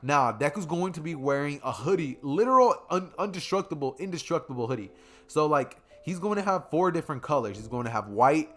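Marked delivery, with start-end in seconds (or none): 2.2-4.9 excited. Real, not acted. Hyping the hoodie.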